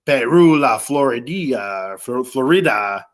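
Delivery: slow, amateur Latino accent on the name; mock Latino accent. Shown as a demonstration. Host unsure of the blend's name, hammed-up Latino accent. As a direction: Latino it up, drawing out flo-ree-DEE-a. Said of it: "Latino it up a little bit".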